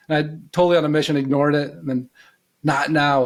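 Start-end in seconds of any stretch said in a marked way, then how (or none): 2.6-3.2 "Not now," in a fuller, firmer voice than the hushed take; a mild, lightly raised inner voice; a bit louder. Retold or imitated. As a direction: repeat "Not now," as the inner voice pressing harder. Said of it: "a bit louder".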